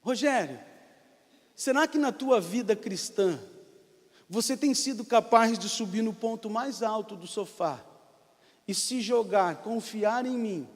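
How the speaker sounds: gentle voice of God. Acted. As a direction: speak as a loving father inviting trust. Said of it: "o Espírito Santo ministrou o meu coração".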